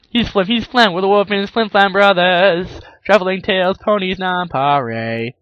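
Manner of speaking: loud, high showman pitch; showman brothers. Retold or imitated. Brothers announce themselves, hammed-up huckster voice. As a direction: sell it like carnival hucksters. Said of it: "They actually just said".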